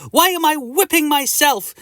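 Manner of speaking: puzzled protest. Acted. Hero whips himself in confusion.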